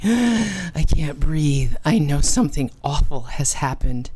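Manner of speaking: fighting for air in dread; choking panic. Retold or imitated. Child choking with fear, realizing something awful happened. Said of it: "that choking".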